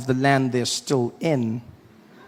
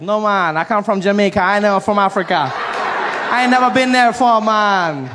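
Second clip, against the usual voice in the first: louder, higher indignant protest; indignant shout; 7 semitones higher, 6 dB louder than usual. Retold or imitated. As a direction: push back hard, almost yelling. Jamaican guy in story.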